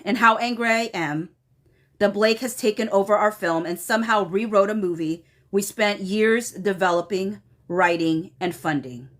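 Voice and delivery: measured email reading, falling line ends; formal read-aloud. Retold or imitated. Reading an angry email to viewers, measured formal read-aloud. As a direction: read it out deliberately, pausing between phrases.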